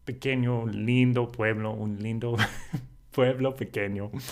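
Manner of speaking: lilting, delighted Spanish praise; enchanted Spanish. Shown as a demonstration. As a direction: savour the little town in Spanish. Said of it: "you even hear the difference in my tone of voice".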